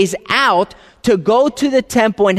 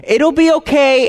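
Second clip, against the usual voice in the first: higher-pitched, lightly acted reassurance; imitated soothing father; 6 semitones higher than usual. Preacher voices his friend comforting his crying son, lightly reassuring. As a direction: act out comforting a crying child. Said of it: "he's crying and he's crying".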